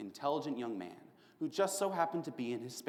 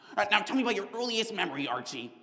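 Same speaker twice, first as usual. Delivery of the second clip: mock shrink; 8 semitones higher, 3 dB louder, faster than usual. Mimicking the prison shrinks.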